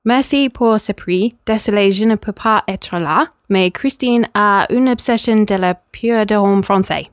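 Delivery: put-on French read in a clumsy English accent; rubbish French accent. Presenter reading the absent winner's message, in rubbish French accent. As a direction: stumble carefully through French with a bad accent. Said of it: "I apologise for my rubbish accent".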